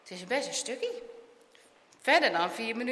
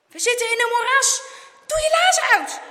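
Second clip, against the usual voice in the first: high, very loud alarm; frantic, forceful shout; shouting in panic; 10 semitones higher, 11 dB louder than usual. A narrator's reading. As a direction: yell an urgent order in panic. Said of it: "schreeuwt zijn vriend in paniek".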